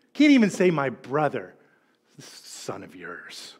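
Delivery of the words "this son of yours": much softer, slow, spitting out son of yours; slow quiet disdain for this son of yours; bitter contempt. Retold or imitated. Resentful older brother to father, slow quiet contempt. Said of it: "can't even say brother".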